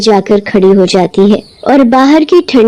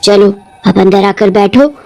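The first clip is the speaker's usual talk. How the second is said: lightly voiced witch; 3 semitones lower than usual. Witch scolds late girl.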